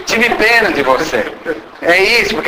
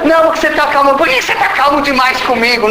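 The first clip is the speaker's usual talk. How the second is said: namorada acusando; 7 semitones higher, faster than usual. Retold or imitated.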